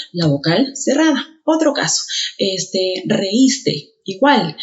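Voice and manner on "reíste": reíste split as re-ÍS-te; stress on the í. Shown as a demonstration. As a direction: put the force on the í of reíste. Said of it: "E I también ha desaparecido".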